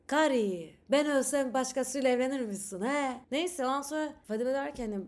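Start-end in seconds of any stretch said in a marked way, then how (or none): 0.1-3.2 put-on Black Sea accent. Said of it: "Temel şöyle seslensin".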